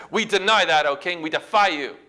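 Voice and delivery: firm acted defiance, a push of volume; defiant. Three men refusing to bow to the king, defiant. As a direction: refuse boldly, with punched words. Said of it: "It's defiance".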